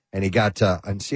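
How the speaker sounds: wheezy, chesty breath; wheezing. Real, not acted. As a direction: talk through a wheeze. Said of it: "I'm wheezing now".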